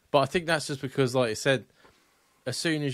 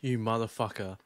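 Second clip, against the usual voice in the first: mouth full of hot food. Real, not acted. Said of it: "the end of my tongue is".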